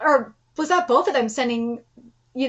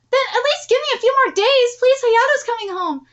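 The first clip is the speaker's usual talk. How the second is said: higher, urgent begging; desperate pleading; 7 semitones higher than usual. Acted. Begging before the grandson comes home, urgent plea. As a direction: beg for more time, pitch raised. Begging for a few more days.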